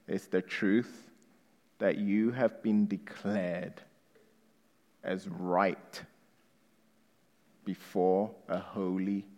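soft, low, gentle explanation; quiet. Acted. Pastor explaining justification to newcomers, soft and low. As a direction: draw them in quietly.

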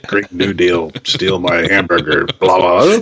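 a hint of a grumbling TV pundit; lightly voiced grumpy old man. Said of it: "you get the growl".

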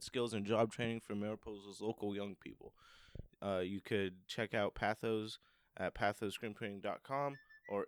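steady sponsor read. Acted. Co-host reading the screen printing sponsor spot, ad read. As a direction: read the ad copy straight through.

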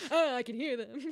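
laughing, put-on eerie lady; mock madwoman. Teasing her as the wallpaper lady, mock crazed. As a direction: play crazed through a laugh. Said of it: "you became the yellow wallpaper lady".

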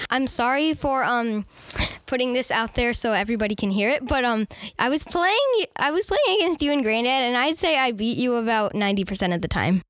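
mock apology with a gloating edge; unapologetic apology. Real, not acted. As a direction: apologise without meaning a word of it. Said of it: "You don't sound sorry".

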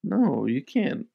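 menacing slow "you can't leave"; lightly menacing barkeep blocking the exit; slow, insistent bartender. Acted. Bartender insists they stay.

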